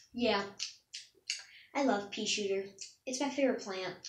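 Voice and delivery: talking through a mouthful; mouth full. Shown as a demonstration. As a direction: say it round a bite of food. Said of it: "simply like this".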